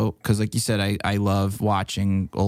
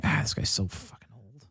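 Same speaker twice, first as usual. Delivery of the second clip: muttered aside; 8 dB quieter than usual. Retold or imitated. Remembered thought at games, quiet.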